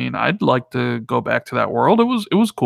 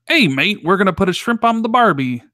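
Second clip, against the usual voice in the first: mock Australian accent, pitched up; Australian accent attempt; 5 semitones higher than usual. Co-host trying a requested accent swap, bad Australian accent. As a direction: have a go at an Aussie accent. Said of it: "No, that's Australian".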